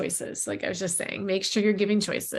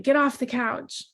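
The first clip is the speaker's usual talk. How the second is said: higher, slowed, stern order to get off the couch; harsh command; 5 semitones higher, slower than usual. Shown as a demonstration. Parent scolding a kid jumping on the couch, in a stern, slowed voice. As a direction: bark it like a fed-up parent. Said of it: "Instead of being like".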